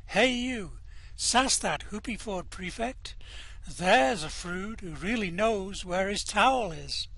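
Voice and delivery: lightly voiced cool hitchhiker; tossed off like street slang; hitchhiker slang quote. Narrator quoting a hip hitchhiker's slang. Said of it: "as in".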